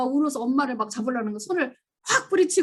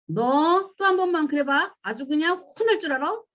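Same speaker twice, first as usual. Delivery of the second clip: mock threat; 5 semitones higher than usual. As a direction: warn the child, menacing and deliberate. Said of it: "무슨 말을 많이 했어요?". (아이를 겁주는 부모, 느리고 위협적인 경고)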